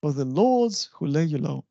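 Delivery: FOR THE both light, leading up to LORDS; pyrrhic opening. Shown as a demonstration. Teacher repeating the line to show unstressed syllables, pyrrhic opening. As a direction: skim over FOR THE and lift LORDS. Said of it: "both of them are unstressed".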